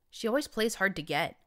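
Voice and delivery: mouth full. Acted. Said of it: "around the mouthful of metal".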